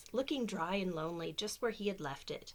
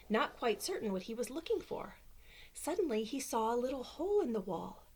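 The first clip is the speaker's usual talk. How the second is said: lively storybook reading voice; reading to children; 3 semitones higher than usual. Acted. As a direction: read it like bedtime story time. Reads picture book aloud.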